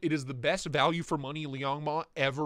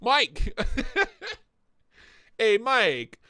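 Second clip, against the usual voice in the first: loud call across the room; 7 semitones higher, 5 dB louder, much slower than usual. Real, not acted. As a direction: call his name to get attention. Calling out to friend.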